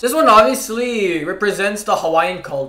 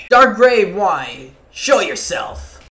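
dramatic summons; 3 dB louder, slower than usual. Acted.

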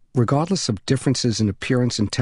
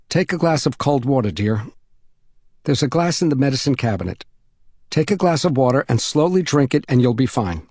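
lightly voiced mother, measured reassurance; reassuring neighbor mother; 3 semitones higher than usual. Mother reassuring an overheated boy through the door, kindly. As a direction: talk a worried child through it, kindly.

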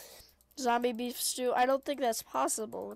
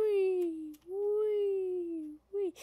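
higher drawn-out "wee"; long gliding wheee, pitched up; playful "wee"; 4 semitones higher, much slower than usual. Real, not acted. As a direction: sing out a stretched wee. Playful squeal while playing.

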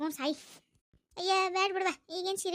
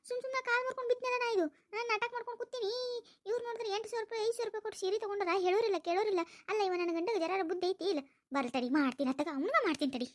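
a slightly raised, aggrieved grumble; sulking daughter-in-law; 4 semitones higher than usual. Acted. Injured daughter-in-law grumbling about the saree money, a hint of sulking. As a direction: complain under your breath, hurt and left out.

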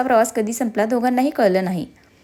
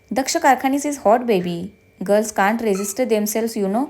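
slow, boastful and smug; show-off swagger; much slower than usual. Acted. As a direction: brag like a self-styled heartthrob. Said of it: "shining मारत म्हणाला".

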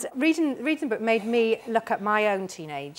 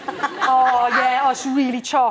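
laughing through it; 4 dB louder, slower than usual. Retold or imitated. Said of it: "we used to say it was chock".

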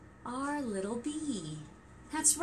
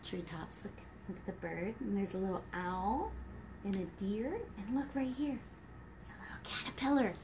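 soft hushed pointing out; 3 semitones lower, 9 dB quieter, faster than usual. Acted. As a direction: lean in and whisper softly.

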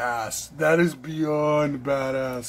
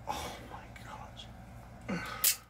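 very slow, stretched whisper; awed whisper; 18 dB quieter, much slower than usual. Real, not acted. Alone with the knife, whispering slowly in awe. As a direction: let it out on one breath.

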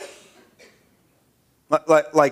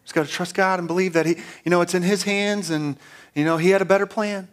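mock pious platitude; 4 dB quieter than usual. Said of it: "put on a face and pretend like we're extra spiritual".

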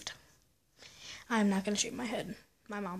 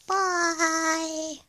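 put-on higher, squeaky little-kid voice; her fifth-grade self; 6 semitones higher, 3 dB louder than usual. Vlogger saying goodbye as her younger self, higher kid voice. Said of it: introduced as her fifth-grade self.

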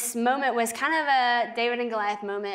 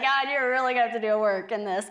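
laughing plea. Retold or imitated. Retells her joking plea to God.

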